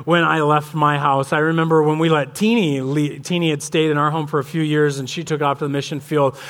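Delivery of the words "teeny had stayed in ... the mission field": normal talking voice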